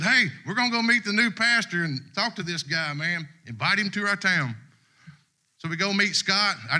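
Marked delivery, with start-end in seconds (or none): 0.0-4.5 mild mock holler, raised pitch; higher-pitched, half-hearted holler; retold holler. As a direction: call out to your wife, lightly acted. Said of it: "I hollered, I said".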